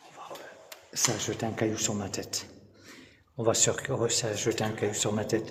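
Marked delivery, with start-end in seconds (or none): 0.9-4.1 startled. Real, not acted. Startled by thrown stone. 4.1-5.5 startled. Real, not acted. Startled by thrown stone.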